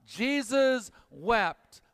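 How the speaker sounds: call-and-response verse, slow; slow recitation. Shown as a demonstration. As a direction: lead the room, *Jesus wept* spoken slowly. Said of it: "Say those two words out loud".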